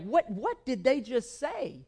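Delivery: drawn-out, puzzled double take; slow, mock-baffled question; retold disbelief. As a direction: react as if you misheard. Retold shocked reaction to radio.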